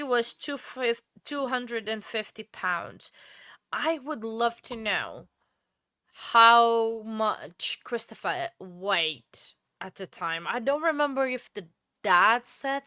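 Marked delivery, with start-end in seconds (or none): 3.7-9.4 talking through a yawn; words stretched by a yawn. Real, not acted. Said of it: "I keep yawning".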